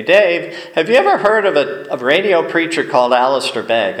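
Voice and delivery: imitating mom. Mom asking about radio preacher.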